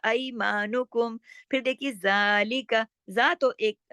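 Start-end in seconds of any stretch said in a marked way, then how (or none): 0.1-1.2 slow ऐमानुकुम, maa held; two-count maa. Shown as a demonstration. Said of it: "मा दो हरकत खींचेगा". 1.9-2.9 जालिका with long zaa, short li-ka; one-alif elongation. Shown as a demonstration. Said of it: "लंबा होगा अलिफ के बराबर".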